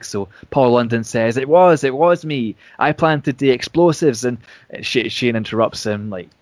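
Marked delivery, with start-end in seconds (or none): 1.4-4.2 a touch of frantic, higher and louder; frantic confession. Retold or imitated. Paul London confessing to the crowd, frantic. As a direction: blurt the confession, growing frantic. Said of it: "more and more frantic".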